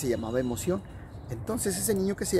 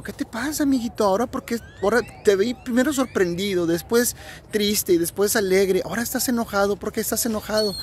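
higher, gentle questioning voice of the Sun; caring Sun; 6 semitones higher than usual. Acted. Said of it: "se acercó su amigo Sol y le dijo". (el Sol preguntando con voz aguda y tierna)

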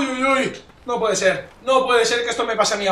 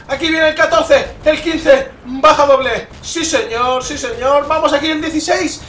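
loud, high running count; excited kill call; 5 semitones higher, 4 dB louder, slower than usual. Real, not acted. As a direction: call out each kill with punch. Calling out his kills in game.

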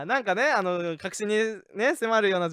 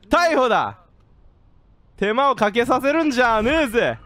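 tough cop; 2 semitones higher, 4 dB louder than usual. Acted. Guard arresting smuggler.

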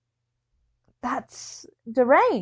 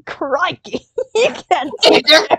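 laughing mimicry; 3 semitones higher, 6 dB louder than usual. Listener echoing the friend's absurd story, laughing mimicry. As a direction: repeat the line while cracking up.

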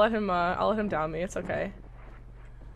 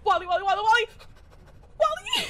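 calling out excitedly; 6 semitones higher, faster than usual. Real, not acted.

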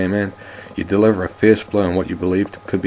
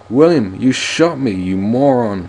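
louder, higher angry outburst; wounded man angry at his partner; 4 semitones higher, 5 dB louder, slower than usual. Acted. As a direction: snap at the shooter. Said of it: "Frank Bates says in anger".

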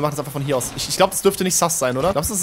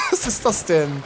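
laughing disbelief; slower than usual. Real, not acted. Laughs at absurd game result.

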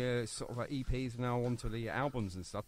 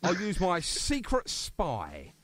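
slow, drawn-out mock-secretive reveal; hint at a spy like a cheesy thriller; playfully conspiratorial, stretched out; mock mysterious; 3 semitones higher, much slower than usual. Joking about a secret source.

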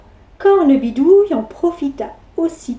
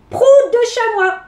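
cheeky insult; 8 semitones higher than usual. Acted.

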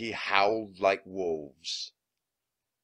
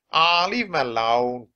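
gruff pirate henchman voice; growling pirate; 5 semitones higher, 6 dB louder than usual. Acted. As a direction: growl at the boy. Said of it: "Pinky growled at Jack".

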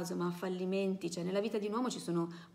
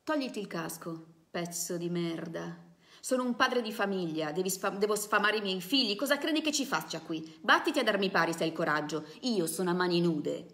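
louder furious threats, a father defending his job; angry yelling protester; 5 dB louder than usual. Acted. Protester shouting at the helmeted officer, loud and furious. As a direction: snarl and yell at the policeman to fight him. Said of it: "Il tipo continuava ad urlare".

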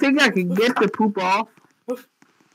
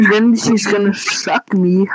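whispering. Real, not acted. Joke to the assistant.

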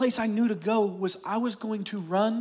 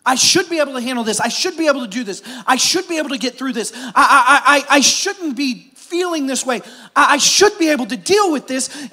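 mock self-talk; 5 semitones higher, 4 dB louder than usual. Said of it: "one of the worst things".

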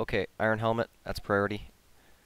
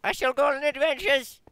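mock heroic; 12 semitones higher, 4 dB louder than usual.

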